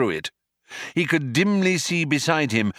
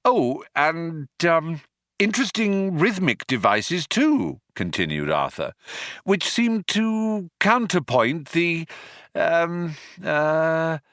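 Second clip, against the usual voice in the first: higher, hesitant bluffing praise; floundering Arthur; 8 semitones higher than usual. Acted. Arthur flounders for words praising the poem. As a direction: grope for words while bluffing. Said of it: "he floundered".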